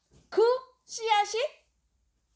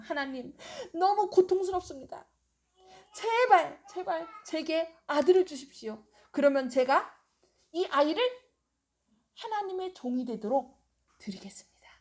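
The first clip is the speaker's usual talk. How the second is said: desperate prayer; 2 semitones higher than usual. Retold or imitated. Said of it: "계속 간구하는 것입니다".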